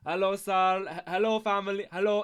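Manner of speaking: loud, overly polite greeting voice; a hammed-up driver greeting the family, loud; mock Uber driver. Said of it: "he's like".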